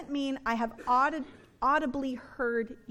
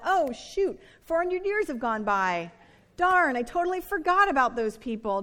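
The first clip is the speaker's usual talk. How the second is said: mock sudden remembering; 4 dB louder than usual. God acted as forgetful, suddenly remembering.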